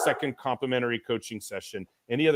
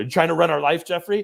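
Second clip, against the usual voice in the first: raised motherly voice; 4 semitones higher, 6 dB louder than usual. Talking about working with a coach, he summons his mom's voice: imitating his mom. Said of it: "that's my mom's voice".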